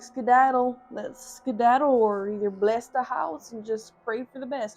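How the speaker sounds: loud, urgent mock plea to get out; half-joking alarm, pushed loud; hammed-up panicked mom; urgent call to flee. Mom telling them to flee.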